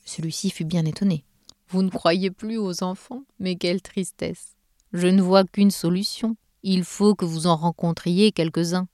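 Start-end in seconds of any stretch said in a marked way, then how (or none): 1.7-8.9 slow, measured Santa; a hint of Father Christmas, deliberate and firm; lightly voiced Santa, saddened then resolute. Voices Santa addressing the elves.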